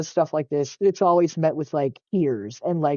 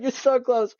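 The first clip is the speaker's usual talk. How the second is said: put-on pitched up and bright like cheering a kid on; high mock cheer; 7 semitones higher than usual. Repeating it to mom, higher and teasing. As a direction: cheer her on in a sing-song high voice. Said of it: "I'm like".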